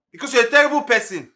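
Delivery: loud, high, laughing shout. Acted. Driver shouting back at his boss, laughing. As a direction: shout her down, half laughing.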